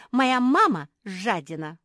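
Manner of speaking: put-on whiny child. A narrator's reading. Child character complaining.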